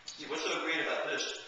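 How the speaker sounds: talking with a mouthful; words through a bite of apple; mouth full. Real, not acted. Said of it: "I hope you don't mind me talking with my mouth full".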